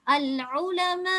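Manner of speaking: அல் உலமா slow, with the final ா stretched; slow recitation. Shown as a demonstration. Teacher intoning the example word for students. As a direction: chant அல் உலமா slowly. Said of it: "ஊன்னு நீட்டிட வேணும்".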